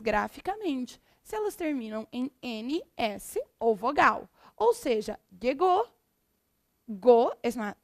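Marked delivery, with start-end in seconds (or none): 5.4-5.9 llegó with the last syllable higher and stronger; stress on final syllable. Shown as a demonstration. Teacher showing students the strong last syllable, final stress on llegó. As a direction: lean on the end of llegó. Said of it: "é mais forte e por isso".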